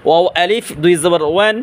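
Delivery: ওয়ান with both lips rounded; rounded ওয়াও. Shown as a demonstration. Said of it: "এটাও দুই ঠোঁট গুল করিয়া".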